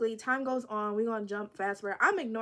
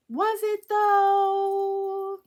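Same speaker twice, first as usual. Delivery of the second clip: doubtful aside; 10 semitones higher, 8 dB louder, much slower than usual. Real, not acted. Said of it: "self-doubting aside".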